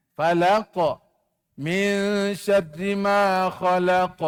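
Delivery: slow chanted tajwid recitation; Quran recitation. Shown as a demonstration. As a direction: chant it slowly like a Quran teacher. Leads class Quran recitation. (bacaan Quran berlagu perlahan)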